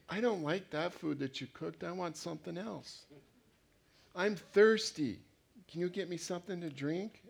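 lightly voiced complaining teenager; whiny teenager. Preacher mimicking a teenager at home, mildly whiny. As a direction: grumble like a teen wanting to be waited on. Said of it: "when you have a teenager at home".

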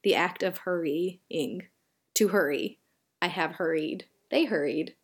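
slow demonstration. Shown as a demonstration. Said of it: "That is the word I'm trying to say".

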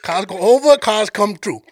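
lightly reprised Cajun guide line; amused imitation of a Cajun accent; Sambo's Cajun accent. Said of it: "I'm gonna play this dude's accent".

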